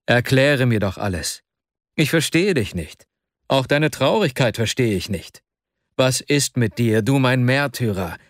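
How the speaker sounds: lightly voiced urgent plea; a touch of anxious insistence; concerned friend pleading. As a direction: press your troubled friend gently for answers. Arkadi pleads with his troubled friend.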